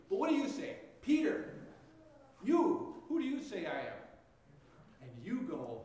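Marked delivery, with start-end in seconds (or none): 0.1-3.9 higher and louder, pressing Peter by name; pressing question. Acted. Jesus asking Peter who he says he is, pressing and louder. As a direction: lean in and demand an answer, gently.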